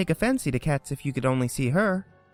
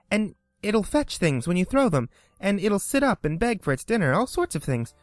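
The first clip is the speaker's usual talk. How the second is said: put-on higher, eager rush of girlish praise; eager chatter; 6 semitones higher than usual. A narrator's reading. Alice eagerly describes a terrier to the mouse. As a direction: gush about the neighbor's dog. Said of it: "so Alice went on eagerly".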